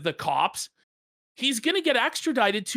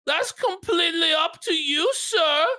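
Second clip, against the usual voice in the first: quoting the stern judge; 8 semitones higher than usual. Retold or imitated. Judge voiced in retold story.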